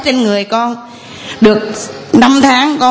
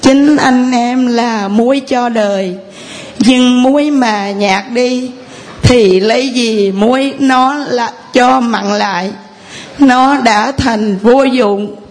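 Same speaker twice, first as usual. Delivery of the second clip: slow, careful reading of the verse; scripture reading; slower than usual. Shown as a demonstration. Woman reading scripture slowly before the congregation. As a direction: read the Bible verse slowly aloud. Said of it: "Con đọc".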